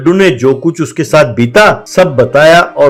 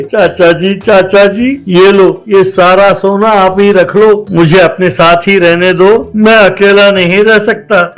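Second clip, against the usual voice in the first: put-on pleading boy; 4 semitones higher than usual.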